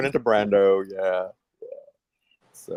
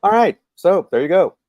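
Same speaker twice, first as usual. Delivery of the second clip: Brando impression; 5 semitones higher, 7 dB louder than usual. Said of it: "That was more like Brando".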